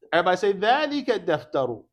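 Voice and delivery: loud classroom model for repetition; loud teacher leading a chant-back drill; calling out a drill. Shown as a demonstration. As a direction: project it for the class to repeat.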